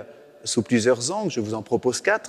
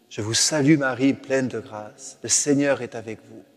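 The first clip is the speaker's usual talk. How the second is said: respectful greeting. Shown as a demonstration. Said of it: "prier ainsi le Je vous salue Marie".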